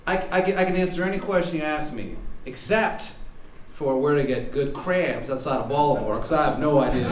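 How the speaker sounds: hammed-up bad Baltimore accent; shitty Baltimore accent. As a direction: play it in a silly Baltimore accent. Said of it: "shitty Baltimore accent".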